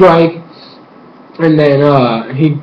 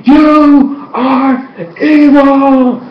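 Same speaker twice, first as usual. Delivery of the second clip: high, very slow accusation; mock-indignant crowd; crowd accusing; 10 semitones higher, much slower than usual. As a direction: drag each word out in outrage. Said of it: "everybody's like".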